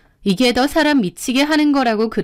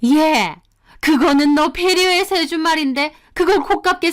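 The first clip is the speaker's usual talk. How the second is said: higher, indignant mother-in-law voice; mother-in-law taking offense; 5 semitones higher than usual. Acted. Mother-in-law rebuking her daughter-in-law, indignant and higher. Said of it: "역정을 내시는 겁니다".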